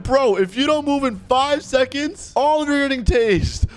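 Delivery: threatening guard. Retold or imitated. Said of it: "He said".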